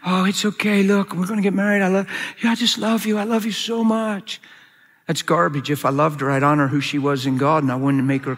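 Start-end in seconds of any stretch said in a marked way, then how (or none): 0.1-4.4 mock-tender sweet talk, slightly raised voice; acted coaxing reassurance. Young man talking his crying fiancée round, acted reassurance. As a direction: soothe and coax her, insincerely.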